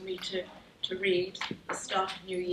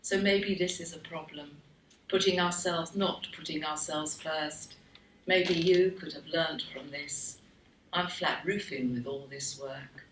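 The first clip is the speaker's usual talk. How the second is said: poetry reading. Acted. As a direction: let the last lines sink slowly to a close. Poem's closing lines.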